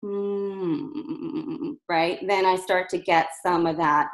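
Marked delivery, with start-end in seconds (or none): 0.0-1.8 hum going rough. Shown as a demonstration. Coach showing a hum that breaks into tension. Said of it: "then it goes rough, it'll sound like this".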